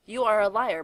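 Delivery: angry outburst after storming off; angry accusation. A narrator's reading. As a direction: throw the charge at him. Hagrid storms off accusing Dumbledore.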